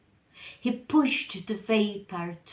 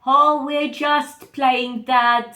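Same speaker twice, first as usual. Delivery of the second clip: put-on louder, bright playful child voice; lightly voiced cheeky girl; innocent daughter; 3 semitones higher, 9 dB louder than usual. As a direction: sound innocent, covering up. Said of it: "said Eva".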